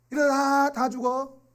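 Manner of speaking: high, loud, drawn-out warning cry; familiar-line impression. Preacher echoing a familiar doom line to children, slow high cry. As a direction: stretch it into a slow, high holler. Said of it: "듣던 것 같은데".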